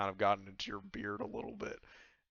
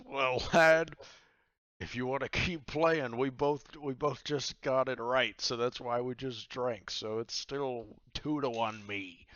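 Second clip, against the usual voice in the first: a touch louder and higher, lightly voiced old captain; pirate captain explaining; 3 semitones higher, 5 dB louder than usual. Pirate captain explains the drinking rules to the player, a touch louder. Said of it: "he says".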